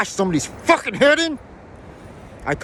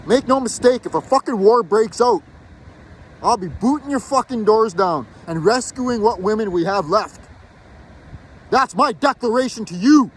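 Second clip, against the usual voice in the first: real anger. Real, not acted. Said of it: "I'm so angry".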